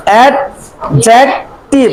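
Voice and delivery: অ্যাডজেক্টিভ very slowly, with pauses between its three parts; split into syllables. Shown as a demonstration. Teacher giving a trisyllable example, অ্যাডজেক্টিভ in slow separate syllables. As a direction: break অ্যাডজেক্টিভ into অ্যাড, জেক, টিভ. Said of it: "তাহলে এখানে".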